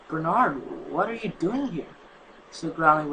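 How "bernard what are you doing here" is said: a touch of frightened stammer, rising on the question; a mild fearful stammer. Acted. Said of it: "stammered in fear".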